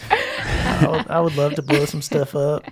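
laughing through tears. Acted.

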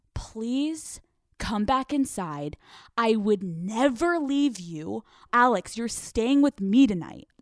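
slow, imploring reassurance; imitated earnest plea. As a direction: plead sincerely, spacing out the words.

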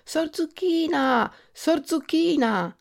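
high, slow, drawn-out tiny call; little voice calling. A narrator's reading. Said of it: "una vocina che chiamava".

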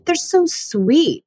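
put-on high, gushing grandpa voice raving about the kids; gushing dad. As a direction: mimic her dad cooing over the girls. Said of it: "He's like".

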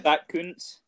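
"Kuntz" drawn out, pronounced with deliberate care; careful pronunciation. Shown as a demonstration. Guest carefully naming the tight end he drafted, careful pronunciation. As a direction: say "Kuntz" slowly and loudly, with care. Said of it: "be very careful how you pronounce it".

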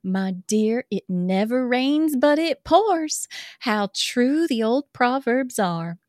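put-on reading a love letter in a light Southern accent. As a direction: read it as a swooning Southern girl. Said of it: "This is Southern".

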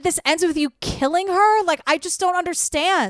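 baffled and appalled, voice lifted; incredulous. Acted. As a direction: demand an explanation you can't fathom. Baffled rhetorical question at killer.

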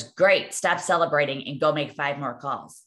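loud, punched "Great", then brisk dismissal; retold boss's order. Sales boss to excited young seller, mock-stern order. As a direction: imitate an unimpressed boss cutting celebration short.

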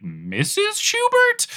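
high, slow mock telemarketer; mock caller, unsure who answered. Telemarketer calling the landline, high and slow. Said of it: "they'd be like".

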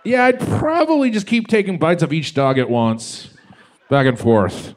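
spitty, close-mic talking; spitty s sounds. Real, not acted. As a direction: mouth right on the mic. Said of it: "you're getting so much spit on the mic".

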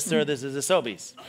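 low, soft, deadpan clerk; deadpan store clerk. Retold or imitated. Store clerk answers a kilt shopper, low deadpan. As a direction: quietly shut the customer down. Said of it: "the man says".

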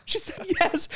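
very high cracking voice after a laugh; emotional voice breaking; weeping. Real, not acted. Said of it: "I was weeping".

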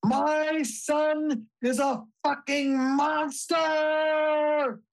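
high, slow screamed curse out the car window; a mom yelling out of a car window about her son, screaming; retold scream. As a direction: belt it out like a mother at her wits' end. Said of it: "screams as loud as she can".

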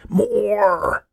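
high, drawn-out scream. A narrator's reading. Old man interrupts the orderly's diet lecture, screaming. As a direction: scream over the other speaker, high and long. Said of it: "Old Man Finster screamed".

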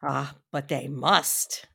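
slow, grave and quiet; solemn slow refusal, soft and firm; very gravely. A narrator's reading. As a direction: lay it down heavily and slowly, with great weight. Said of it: "said very gravely".

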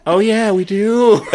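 the embarrassed climb-down; sheepish realization. Retold or imitated. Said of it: "In your voice".

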